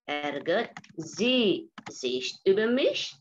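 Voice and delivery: Ärgert sie sich über mich? spoken slowly, ending up on mich; slow repeat. Shown as a demonstration. Teacher repeating the question for students to copy, slow. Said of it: "teacher repeats question".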